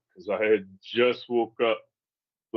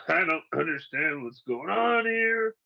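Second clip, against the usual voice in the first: retold angry outburst; 4 semitones higher than usual. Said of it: "all I'm doing is getting fucking mad".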